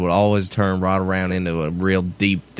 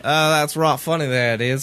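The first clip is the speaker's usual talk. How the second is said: mock country accent; 6 semitones higher than usual. Hick imitation after hayseed talk.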